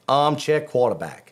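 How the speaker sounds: attempted American accent; lightly done American twang. Shown as a demonstration. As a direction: put on your best American accent. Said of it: "as my best American accent".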